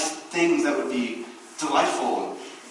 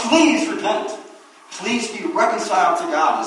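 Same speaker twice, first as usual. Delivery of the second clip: louder, raised earnest plea; Paul begging people to be saved, raised pleading; 5 semitones higher, 5 dB louder than usual. Retold or imitated. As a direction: urge them to repent, pleading. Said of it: "Paul is begging people".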